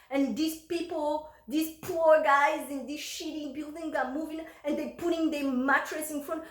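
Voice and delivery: loud, high, furious rant of a rich neighbor; hammed-up yelling neighbor; angry neighbor shouting. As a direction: rage at the movers like an entitled big guy. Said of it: "this guy started shouting".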